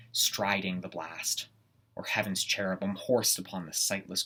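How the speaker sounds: measured stage recitation with long weighted pauses; deliberate, brooding Shakespearean monologue; dramatic Macbeth soliloquy. Acted. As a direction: weigh each clause like a man contemplating murder. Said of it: "performing a segment of Macbeth".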